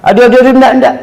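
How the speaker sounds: annoyed refusal. Retold or imitated. Child waving off parent.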